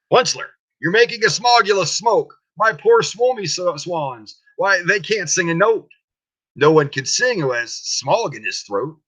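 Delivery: croaky Lorax cry. Acted. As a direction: scold him as a small croaking creature. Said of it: "he cried with a crofulous croak".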